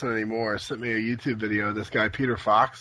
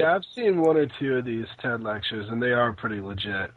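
hollow, boxed-in sick voice; inside a barrel. Real, not acted. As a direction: sound like you're talking from a barrel. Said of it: "you sound like you're in a barrel right now".

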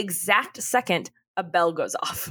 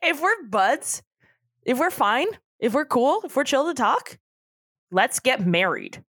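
mock Mitch pleading; 5 semitones higher than usual. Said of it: "Mitch says".

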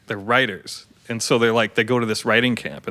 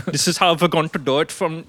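Count voice; 5 semitones higher than usual. Pretend. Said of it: "that's the Count".

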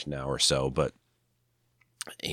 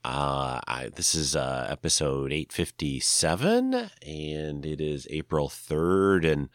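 stuffy nose from a cold; nasal voice. Real, not acted. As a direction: talk through a blocked nose. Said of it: "if I sound a little nasally".

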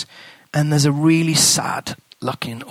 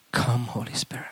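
breathy whisper, much softer; whispered prayer; 3 semitones lower, 9 dB quieter than usual. Shown as a demonstration. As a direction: whisper the invocation. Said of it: "I begin to pray".

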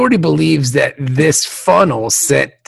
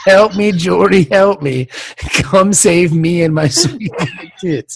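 distress message voice; 3 semitones higher than usual. Retold or imitated. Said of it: "The message".

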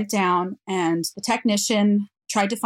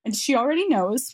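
higher voice, fighting back tears; tearful; 5 semitones higher than usual. Real, not acted. Mother speaking of her lost daughter, tearful. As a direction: talk through welling tears. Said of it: "I still cry when I tell that part".

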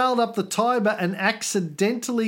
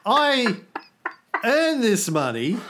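mock indignant rant; 3 semitones higher than usual. Indignant rant against the emperor.

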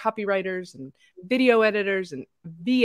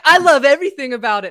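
gushing; 5 semitones higher, 10 dB louder, faster than usual. Retold or imitated. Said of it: "'Cause you're like".

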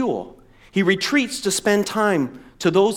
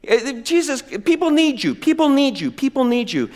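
mock urgent disciples; 7 semitones higher than usual. Voicing disciples searching.

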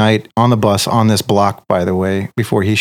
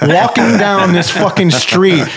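laughing; 5 semitones higher than usual. Real, not acted. Laughing while describing.

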